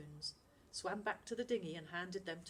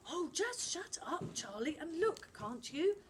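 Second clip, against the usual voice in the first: put-on sharp, impatient girl snapping; snarl; 10 semitones higher, 5 dB louder than usual. Jazz to Charlie in the emergency, snapping. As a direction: cut him off, fed up. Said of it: "snarled Jazz".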